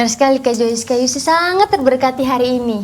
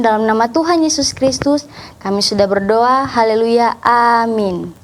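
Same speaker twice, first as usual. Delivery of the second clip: closing prayer. Acted. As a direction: pray sincerely for the children.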